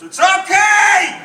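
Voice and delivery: long, drawn-out high yell of okay; mock shout. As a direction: call it out like a creepy stranger in the dark. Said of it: "when some guy alone is".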